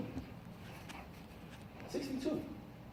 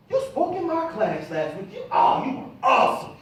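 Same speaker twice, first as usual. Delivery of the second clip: excited; 4 semitones higher, 4 dB louder than usual. Retold or imitated. Student gushing.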